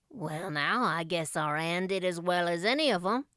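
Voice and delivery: put-on a shy old man proud of the girl; proud old Matthew. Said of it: "said Matthew proudly".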